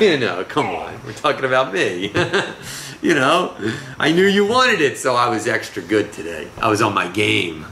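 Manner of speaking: cocky son bragging playfully to his father, with chuckles; Esav. Retold or imitated. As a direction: play a casual show-off, half laughing. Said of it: "If I were to ask Esav".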